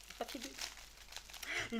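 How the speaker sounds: souffle lent et rêveur, presque sans voix; chuchoté. Pretend. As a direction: murmurer le mot en le savourant. Savoure le mot papier bulle. (murmure lent et émerveillé)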